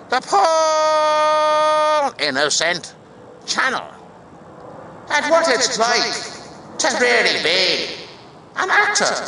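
put-on big Irish-accented announcer shout; shouted sign-off. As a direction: bellow it out, stretching the name enormously.

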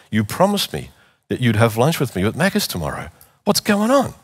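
firm, pointed question, the last words jumping high; retelling a firm call to a friend on the edge; determined challenge. Retold or imitated. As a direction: pin him down with it.

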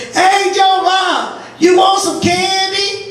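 drawn-out high coaxing offer; sweet-talking mom. Retold or imitated. Mom luring her brother with laxative candy, high and coaxing. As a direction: bait him sweetly with the candy. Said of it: "and she goes".

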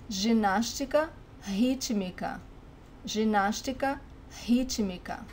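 rítmica starting with an English H sound. Shown as a demonstration. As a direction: say rítmica as "HEE-chee-mee-ka". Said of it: "it sounds like the H in English".

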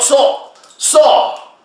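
high, forceful command; commanding call. Acted. Preacher orders Lazarus out, high and forceful. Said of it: "sors de la grotte".

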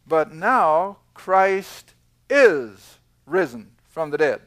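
slow, weighty "but now Christ is risen", landing hard on "risen"; emphatic scripture reading. Shown as a demonstration. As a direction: read it slowly, letting "risen" ring out. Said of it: "I'm moving the verb from the King James for emphasis".

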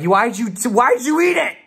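high, loud incredulous outburst; appalled disbelief. Retold or imitated. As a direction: scold a friend in stunned disbelief. Appalled at friends, retold.

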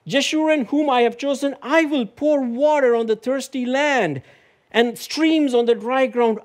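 preacher proclaiming God's words to Jacob; fervent preaching. Acted. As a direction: declaim God's promises to the flock.

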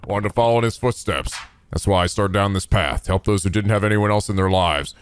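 low, sincere tough-guy voice; a hard man speaking from the heart; earnest hero. Acted. Kiryu tells why he chose this path, low and earnest.

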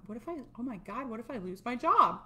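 mock worry rising to a loud JOB; pretend panic. Coach pretending to fear losing a job, mock panic. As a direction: act out a burst of panic.

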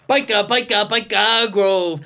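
Geordie impression. Trading Geordie catchphrases in accent.

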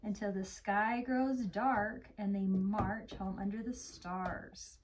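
slow storybook narration; gentle read-aloud; story reading. Acted. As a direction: read it slowly to a young child. Reads story to child.

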